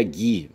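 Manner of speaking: gui said as "ghee", no U; silent U. Shown as a demonstration. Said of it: "a não realização fonética do U". (gui sem som de U)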